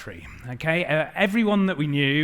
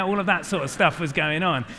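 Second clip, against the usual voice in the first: normal talking voice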